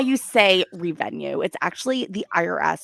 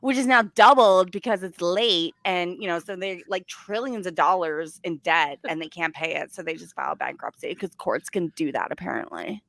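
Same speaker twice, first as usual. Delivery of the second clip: mocking impression. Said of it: "I need to start talking like this woman".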